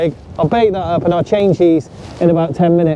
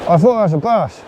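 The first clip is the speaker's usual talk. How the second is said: talking with a rig in mouth. Real, not acted. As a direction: say it round something held in the teeth. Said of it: "Sorry, I got a rig in my mouth".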